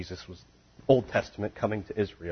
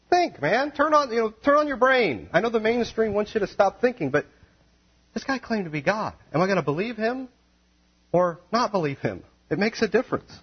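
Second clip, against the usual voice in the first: high, loud, fervent preaching; preaching at full force; 11 semitones higher, 3 dB louder than usual. Acted. Preacher hammering Jesus' claim to be God, full force. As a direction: drive it home to the crowd.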